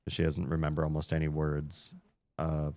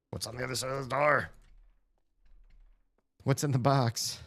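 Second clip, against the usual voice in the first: higher, quicker sing-song question; higher, light mock curiosity; playful high voice; 8 semitones higher than usual. Real, not acted. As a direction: tease the puzzle in a lilting voice.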